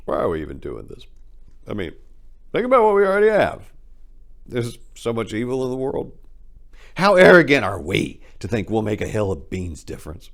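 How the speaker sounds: rising to high, loud despairing cries; hefty man crying out to his friend, despairing shout; tearful outburst. Acted. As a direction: break out in despair. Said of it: "was his final exclamation".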